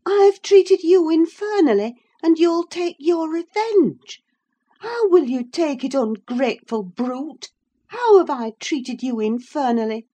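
high, loud and outraged; outraged high woman's voice; indignant Catherine. A narrator's reading. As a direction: fling his words back at him.

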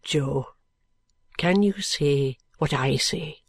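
put-on high, breathless, dying boy whisper; fading boy, barely voiced. A narrator's reading.

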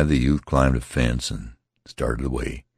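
plain reading voice

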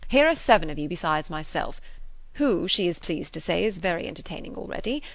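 loud, lively master-of-ceremonies address; public announcement. Acted. Frank announcing a game to the party, mock-official. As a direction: proclaim the rules with mock pomp.

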